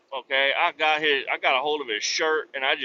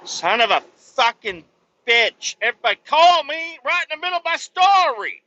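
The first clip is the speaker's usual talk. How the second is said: real irritation, louder and higher; fed-up swearing that climbs higher and faster; angry outburst; 10 semitones higher, 5 dB louder than usual. Real, not acted. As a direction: blow up at the interruption. Phone call interrupts his story.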